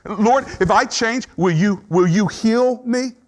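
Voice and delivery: high, stammering, pleading; high pleading bargain with God; voicing bargaining. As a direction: beg and promise, tripping over words. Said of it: "Bargaining is when you say".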